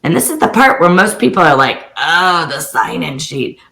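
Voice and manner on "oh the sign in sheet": groaned "oh", then slow and sinking; mock dread. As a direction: imitate people dreading a chore. Mimics people dreading sign-in sheet.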